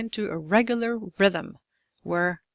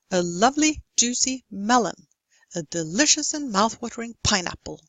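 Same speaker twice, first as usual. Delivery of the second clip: beats on "lovely", "juicy", "melon", then quicker "delicious and mouth-watering pineapple"; regular stressed rhythm. Shown as a demonstration. Lecturer gives longer examples, "melon" and "pineapple" landing on the beat. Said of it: "speed up the unstressed ones".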